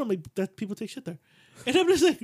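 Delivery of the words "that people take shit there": nonchalant. Retold or imitated. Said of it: "nonchalant about it".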